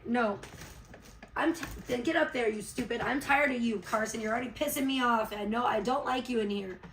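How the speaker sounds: fed-up, firm telling-off; real scolding. Real, not acted. Mom tells Carson off, irritated and firm. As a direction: snap at the intruder to get out.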